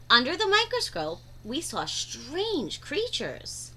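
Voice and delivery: put-on lively read-aloud for young kids; animated storytime voice; story narration. A narrator's reading. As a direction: read the picture book to the class with wide-eyed energy. Reads picture book aloud.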